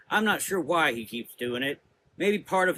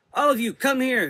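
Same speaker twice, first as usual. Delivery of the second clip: higher, louder summoning shout; 11 semitones higher, 7 dB louder than usual. A narrator's reading. Prudence summoning the sisters, shouting. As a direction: shout them together. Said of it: "shouted Sister Prudence".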